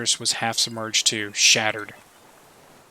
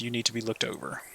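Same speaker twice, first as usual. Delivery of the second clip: quiet urging; 8 dB quieter, faster than usual. Acted. Detective urging sick old man.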